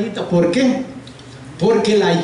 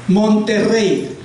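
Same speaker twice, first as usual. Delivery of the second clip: sounded out; slower than usual. Shown as a demonstration. Teacher sounds out example word.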